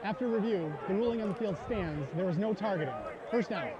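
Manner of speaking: stadium PA replay ruling; referee penalty announcement. Real, not acted. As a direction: announce the review result over the speakers.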